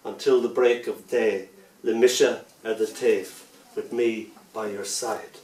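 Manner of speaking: put-on rock the unborn child to sleep; lullaby. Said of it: "that's where the first lullaby bit comes".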